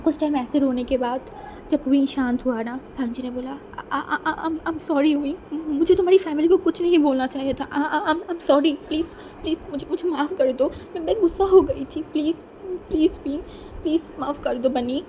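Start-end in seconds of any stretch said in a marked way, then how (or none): 3.9-15.0 stammering apology. Acted. Guilty apology after her outburst.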